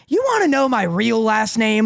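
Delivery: lightly imitating Rex, barely changed; attempted impression. Fan retries Rex's reveal as an impression, lightly voiced. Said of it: "I bet I could get the impression".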